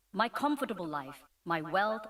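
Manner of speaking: usual speaking voice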